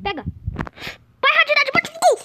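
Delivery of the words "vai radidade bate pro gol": excited cheering. Real, not acted. Cheering a teammate's goal.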